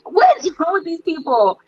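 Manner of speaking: high-pitched disbelieving exclamation; incredulous. Retold or imitated. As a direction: squeak it out in pure disbelief. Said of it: "And I'm like".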